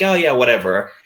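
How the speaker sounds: ordinary talk, nothing marked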